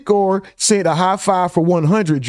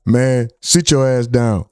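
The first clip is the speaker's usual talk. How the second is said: Angry Man; 6 semitones lower, slower than usual. Retold or imitated. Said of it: "Martin asked Angry Man".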